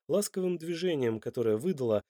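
plain reading voice

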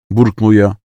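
ordinary delivery

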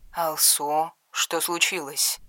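father-in-law speaking through a phone, distant and soft. A narrator's reading. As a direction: sound small, as through a phone.

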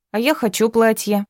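put-on a small girl pleading sweetly; eager little girl. A narrator's reading. Other girl asks eagerly.

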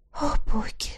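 breathy whispered gasp; breathed out. A narrator's reading. Heroine in despair over the lost bag, breathing it. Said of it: "выдохнула я".

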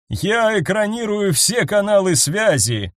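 slow, haughty noblewoman. A narrator's reading. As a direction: look down on them, unhurried. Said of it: "надменно произнесла Ангел".

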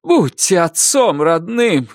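high, begging convict voice; pleading prisoner. A narrator's reading. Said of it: "кричит арестант".

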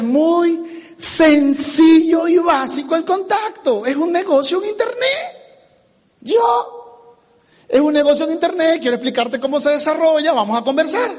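high, drawn-out opening, then brisk; emphatic sales pitch. Shown as a demonstration. Demonstrates the simple scripted pitch.

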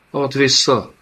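panted. A narrator's reading.

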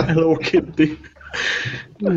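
nevetve, magasabban mondja: Hello Kitty. Real, not acted. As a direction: kacagva vágja rá. Laughing reply in banter. (nevetés közben kimondva)

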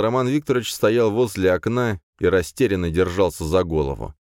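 ordinary delivery, nothing marked

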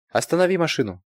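high urgent order; demanding. A narrator's reading. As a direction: order the car stopped. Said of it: "потребовала Ирина".

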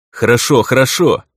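hastily calm him down; hurried appeasing; hurried placating. A narrator's reading. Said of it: "торопливо произнёс я".

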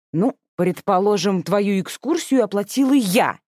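slow, deliberate mild indignation; a touch of outrage; indignant. Acted. Older sister indignantly reminds who paid for the trip. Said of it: "возмутилась Дакия".

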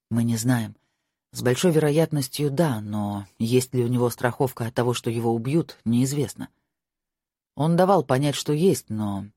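a hint of a worried lover. Marko voiced by narrator.

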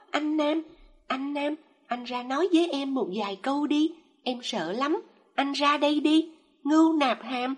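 high, loud wailing pleas to the husband; heart-rending plea. A narrator's reading. Mother begging her vanished husband, high desperate wail. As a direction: beg him to come back, wailing. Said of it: "Giọng chị ta thê thiết như tiếng khóc của chim đổ quyên".

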